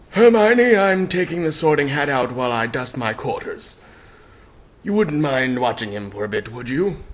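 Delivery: a hint of a kindly headmaster; Dumbledore's voice. Dumbledore voiced in dramatic reading.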